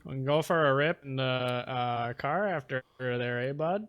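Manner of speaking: round-vowelled mock Canadian; exaggerated Canadian lilt; Canadian accent. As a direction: agree like a folksy Canadian. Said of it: "that's my favorite accent to do".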